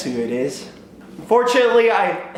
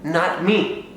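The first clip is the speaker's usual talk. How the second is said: calm mom; 6 semitones higher than usual. Retold or imitated. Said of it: "she's like".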